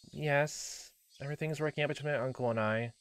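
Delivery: soft, small voice; meek girl. Acted. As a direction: quietly cover for someone under pressure. Coerced girl answering the caller.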